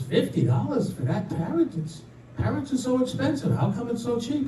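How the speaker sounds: mildly incredulous, pitch climbing; surprised customer. Acted. Woman to pet store owner about price, surprised. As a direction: query the price with rising disbelief. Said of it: "She says".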